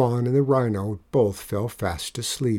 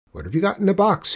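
quick, higher, demanding driver voice; fast, pitched-up questioning bus driver; gruff bus driver; 8 semitones higher, faster than usual. Acted. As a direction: grill the boy like a wary driver. Suspicious bus driver questions Juan.

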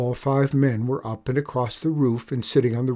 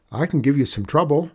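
put-on higher, quick boy's voice; plucky boy; 4 semitones higher, 5 dB louder, faster than usual. Boy challenging an outlaw boss, lightly plucky. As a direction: pipe up with a challenge.

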